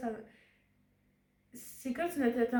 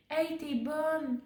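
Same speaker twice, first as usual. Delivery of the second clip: enthusiastic praise; 4 semitones higher, much slower than usual. Retold or imitated. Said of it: "pas dire à une élève".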